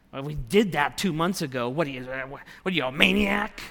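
lightly voiced wife scoffing at husband; a hint of an offended wife, rising on maniac; mock exasperated wife.

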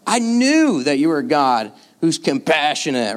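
understated exasperation, hammering the key words; sarcastic frustration. Acted. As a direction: throw the praise back as an accusation. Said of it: "Can you hear him in his frustration?".

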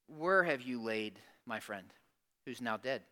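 hushed acted-out question to a mourner; gentle, grieving question. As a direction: ask it tenderly, with pauses. Jesus speaks gently at grave.

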